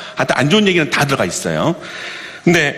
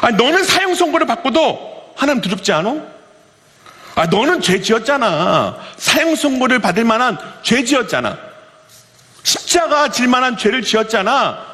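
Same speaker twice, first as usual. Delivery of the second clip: higher, scolding retelling of the thief; acted rebuke; 5 semitones higher than usual. Thief scolding the other thief on the cross, acted high and scolding. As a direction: scold him like you can't believe his nerve. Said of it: "막 꾸짖고 있는 거예요".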